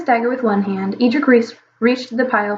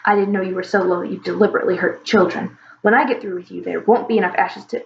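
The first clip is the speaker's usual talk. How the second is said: angry dragon father; 2 semitones lower than usual. Acted. Angry dragon father threatens humans.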